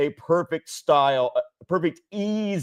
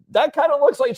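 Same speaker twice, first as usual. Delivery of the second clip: a hint of the son's voice, higher; mock son; 11 semitones higher, 4 dB louder than usual. Son teasing grandma about the costume, lightly voiced. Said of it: "he's just like".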